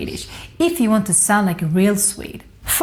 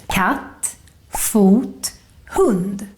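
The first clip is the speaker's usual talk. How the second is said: "katt", "fot", "hund" each one up-down peak; one clap per word on "katt, fot, hund"; acute accent; much slower than usual. Shown as a demonstration. Teacher giving one-syllable examples, acute "katt, fot, hund". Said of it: "goes up and then down".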